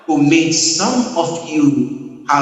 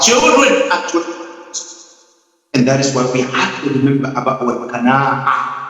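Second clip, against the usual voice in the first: ordinary talk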